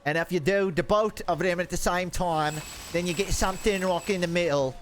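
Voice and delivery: North-South accent blend slipping into British; mixed accent going British. Shown as a demonstration. Streamer failing to blend north and south, accent going British. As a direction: mix both accents, drifting helplessly British. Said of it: "it keeps going to British".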